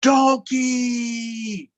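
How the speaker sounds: high, loud wailing cry; crying yell. Acted. Hurt Elephant crying back at Donkey, loud wail. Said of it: "He starts to cry".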